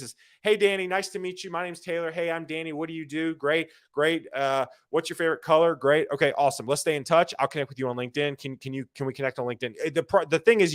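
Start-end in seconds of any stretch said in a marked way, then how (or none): 0.4-9.8 sample networking chat. Retold or imitated. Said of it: "All networking is".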